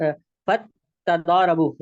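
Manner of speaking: फत तदारबू spelled out slowly, बू held; very slow model reading of तदारबू; slow careful demo. Shown as a demonstration. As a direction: stretch out तदारबू so students hear the pesh on बा. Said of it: "यानी बा के ऊपर पेश है".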